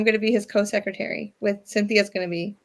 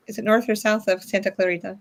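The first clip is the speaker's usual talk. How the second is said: newscaster voice. Real, not acted. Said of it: "you say it like a newscaster".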